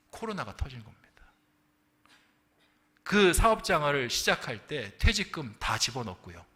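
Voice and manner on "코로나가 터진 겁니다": hushed reveal. Acted. Pastor whispering the news of the crisis to the congregation. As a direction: drop to a whisper for the bad news.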